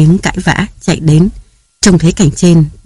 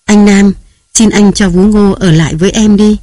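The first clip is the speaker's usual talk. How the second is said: wife clutching husband's shirt, pleading; 3 semitones higher than usual. Acted. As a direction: plead with him to let the nanny stay. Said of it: "nài nỉ".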